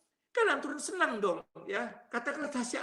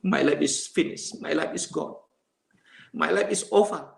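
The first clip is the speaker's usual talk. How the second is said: despairing declaration; 7 semitones lower, 4 dB louder than usual. Retold or imitated. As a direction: pronounce each sentence like a final verdict. Despairing declaration, jobless and deserted.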